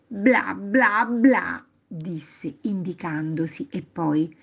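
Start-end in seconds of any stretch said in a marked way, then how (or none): 0.1-1.7 loud, punchy blah-blah-blah; mimicked chatter. Boy showing grandma he talked, mimicked chatter. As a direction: spit out each blah as mock chatter.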